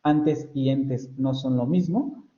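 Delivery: slow, with "antes" and "entes" kept apart; slow contrast demo. Shown as a demonstration. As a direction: say "antes y entes" slowly so both vowels are clear. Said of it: "sigo percibiendo distintividad".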